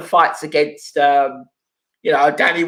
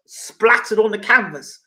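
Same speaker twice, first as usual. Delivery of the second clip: slow, savouring repeat of Splattered on the canvas; slowed sarcastic repeat of the viewer's words; mocking echo; 3 semitones higher than usual. Shown as a demonstration. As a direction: drag the words out in mock disbelief. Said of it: "Exactly what would happen".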